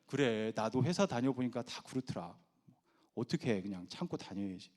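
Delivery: low, subdued consoling voice; kinder husband. Retold or imitated. Kinder husband consoling tired wife, low resigned voice. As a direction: softly offer resigned advice. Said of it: "좀 더 자상한 남편은".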